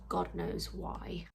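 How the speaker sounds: whispered aside. Real, not acted. Muttered aside.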